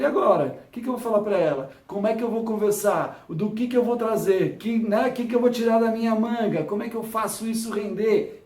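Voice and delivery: frantic inner voice, half-joking; flustered mock panic. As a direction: act out the hammed-up panic of running out of things to say. Flustered inner monologue, nothing to say.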